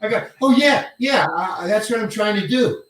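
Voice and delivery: light up with eager delight at being seen through; got excited. Retold or imitated. Actor replying to director who read his plan, retold excitement. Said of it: "I just got excited".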